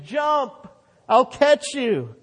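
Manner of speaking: high, loud call to jump; father calling out. Retold or imitated. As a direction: call up to a child on the roof. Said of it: "His father kept yelling".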